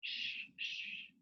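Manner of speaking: soft unvoiced shushing; whispered shush. A narrator's reading. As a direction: hush them without voice. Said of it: "whispered Pippi".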